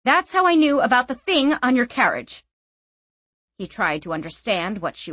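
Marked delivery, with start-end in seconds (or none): 0.0-2.4 put-on feisty young woman. A narrator's reading.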